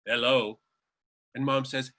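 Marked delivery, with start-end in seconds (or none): 0.0-0.6 Marlena Dietrich voice. Retold or imitated. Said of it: "she hears that voice say".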